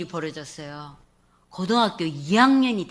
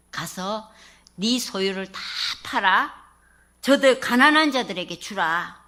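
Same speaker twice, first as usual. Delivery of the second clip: voice of God; 4 dB louder than usual. Acted. God's words quoted in sermon.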